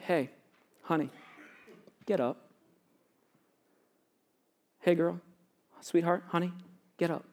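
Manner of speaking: put-on hushed, low parent waking a child; soft, tender, loving. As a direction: coax gently, with long pauses between phrases. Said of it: "saying in a soft, tender, and loving way".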